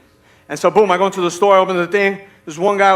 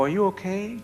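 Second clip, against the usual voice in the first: soft, saintly concern; best Jesus voice; 2 semitones higher, 9 dB quieter than usual. Acted. Husband checking on groaning wife at four, best Jesus voice. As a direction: ask it gently, putting on patience. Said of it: "in my best Jesus voice that I can".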